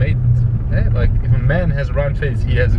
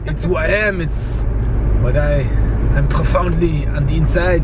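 put-on French accent; 3 semitones higher than usual. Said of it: "speaking in a French accent all morning".

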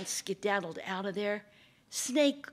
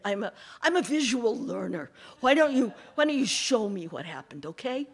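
louder, feigned eagerness; mock-innocent fox; 6 dB louder than usual. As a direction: play dumb to trick him. Fox fakes confusion.

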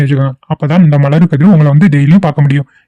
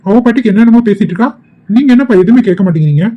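raised indignant protest; 3 semitones higher than usual. Acted. Relative protests to father.

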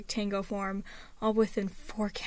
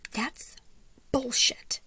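scoffing; 4 semitones higher, 4 dB louder, much slower than usual. A narrator's reading. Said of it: "she scoffed".

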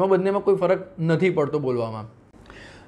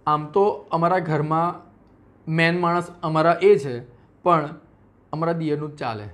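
imitating a housewife; 3 semitones lower than usual. Teacher imitating a housewife mispronouncing મેન. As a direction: chat like a housewife about her home. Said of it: "ગુજરાતીઓ ઘણી વખત".

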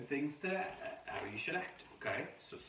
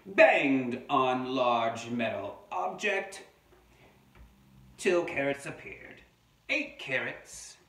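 slow, emphatic amateur Australian narration; attempted Australian accent; 5 semitones higher, 8 dB louder, much slower than usual. Reader telling children of the banging wombat, slow pretend Australian accent. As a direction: stretch out the entries in pretend Australian. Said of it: "not sure if this is a real Australian voice".

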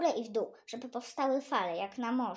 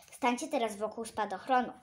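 teacher's request. Acted. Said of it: "poprosiła pani".

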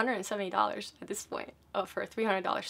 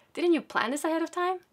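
higher and louder, disbelieving; incredulous scolding; 8 semitones higher, 6 dB louder than usual. Retold or imitated. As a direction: chide her for not planning. Bus driver scolding mom.

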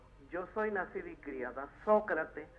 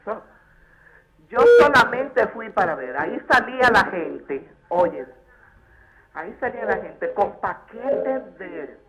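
raised, forceful caller's testimony; loud insistence; 3 semitones higher, 13 dB louder than usual. Real, not acted. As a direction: insist at high volume on what was witnessed. Caller insists on what she witnessed.

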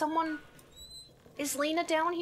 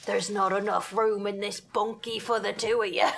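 lightly voiced movie-tough-guy line; odd put-on voice; 4 semitones lower than usual. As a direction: toss it off like a half-hearted showdown line. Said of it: "I don't know why I said it like that".

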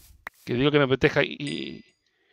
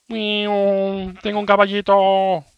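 tender; 5 semitones higher, much slower than usual. Real, not acted. Tender over horse.

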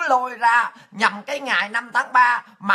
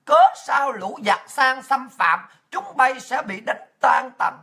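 put-on slow, solemn recitation of the old poem; reciting the patriotic verse Obama quoted, slow and formal; slower than usual. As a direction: declaim it like a call to arms, unhurried. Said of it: "Bởi ông mới dùng cái câu là".

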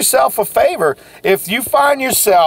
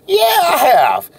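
mock wail; 8 semitones higher than usual.

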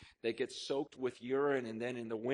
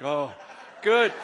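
a loud, high, thrilled "oh, good"; delighted exclamation; 3 semitones higher, 14 dB louder than usual. Retold or imitated. Pastor retelling the congregation's thrilled reply, loud and delighted. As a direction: burst out with joy at the news.

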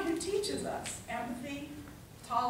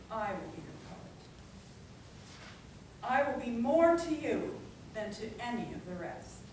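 measured, declamatory poem reading with long pauses; dramatic public poetry reading; poetry recitation. Acted. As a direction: recite it line by line, letting each phrase land. Recites a Whitman poem to audience.

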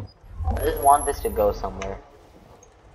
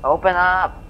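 shouting; 6 semitones higher, slower than usual. Real, not acted. Door in the game won't open.

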